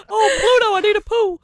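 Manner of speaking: high squeaky cartoon voice; mock a cartoon dog. Player mocking Pluto, high and squeaky.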